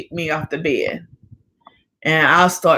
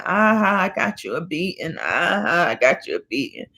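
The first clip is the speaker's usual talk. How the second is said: taunting sister; 3 dB quieter than usual. Retold or imitated. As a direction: imitate a sister's sly teasing laugh. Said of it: "my sister start laughing".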